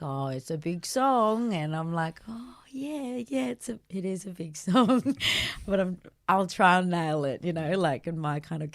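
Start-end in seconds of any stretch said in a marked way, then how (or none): 0.0-1.5 slow, drawn-out smart-arse remark; sarcastic judges. Retold or imitated. Judges needling a young singer, sarcastic. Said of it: "that kind of sarcasm". 2.3-5.2 higher-pitched, placating yeah-yeah; nervous agreement. Retold or imitated. Young singer answering smart-arse judges, nervously agreeable. Playing along with sarcastic judges.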